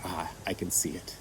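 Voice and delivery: soft breathy whisper to herself; whispered aside. Real, not acted. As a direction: whisper it as if spotting the ghost. Quiet aside while staring at image.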